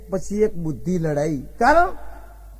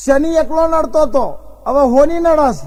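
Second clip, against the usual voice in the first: punchline; 6 semitones higher, 6 dB louder than usual. Retold or imitated. Punchline told to the astrologer.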